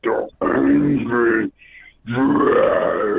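slow, drawn-out dragon growl; angry dragon voice. Pretend. Asked to repeat it, slow dragon voice. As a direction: drag the words out like a beast. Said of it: "Let's hear".

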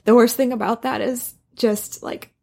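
crying while talking, voice breaking; tearful and high, fighting sobs; blubbering. Real, not acted. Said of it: "sorry, I'm crying".

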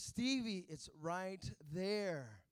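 put-on slow, spelled-out insistence to a toddler; mildly exasperated dad, slowly; patient but firm. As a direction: drag each word out so the kid gets it. I'm getting frustrated now.

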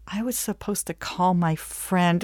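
slow, dawning admission; sheepish realization. Acted. Client realizes she forgot her witness, sheepish. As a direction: drag it out as it sinks in.

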